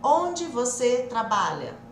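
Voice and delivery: slow, separated words like a translation app; robotic word-by-word demo; parecendo o Google. Shown as a demonstration. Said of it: "Tá parecendo o Google lá". (devagar, separado, tipo Google)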